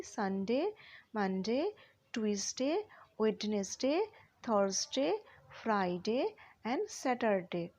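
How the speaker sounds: day names broken into syllables, each set apart; teacher's measured list, parts separated. Shown as a demonstration. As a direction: sound out each day for spelling. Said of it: "একটু syllable ভেঙে ভেঙে বলো".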